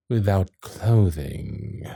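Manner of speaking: slow, hushed, drawn-out disbelief; stunned realisation. Acted. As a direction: let it out slowly, half whispered. Shocked at revelation of nude posing.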